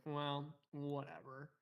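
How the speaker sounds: slow, drawn-out eye-roll; dismissive whatever. Acted. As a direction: stretch it out like a bored teen.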